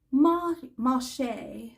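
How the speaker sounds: marché said the French way, slowly; French pronunciation. Shown as a demonstration. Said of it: "as I call it".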